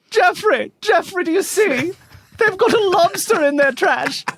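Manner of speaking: very high, hammed-up old New England accent; mock eighteenth-century accent. Nosy neighbour alerting Jeffrey to the trash, in mock eighteenth-century accent. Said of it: "Genuine eighteenth century accent there".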